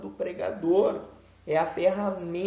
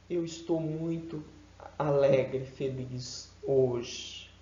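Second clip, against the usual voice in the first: flat mismatched delivery; 3 semitones lower, slower than usual. Shown as a demonstration. Teacher showing a voice that contradicts happy words. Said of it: "A voz precisa condizer com as palavras".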